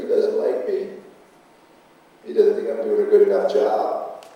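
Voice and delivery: hammed-up hurt whine, as if pouting under the table; whiny pout. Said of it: "they're gonna pout".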